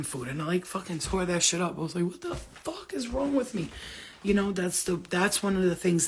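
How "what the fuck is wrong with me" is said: mock self-exasperation. Retells scolding herself for night eating.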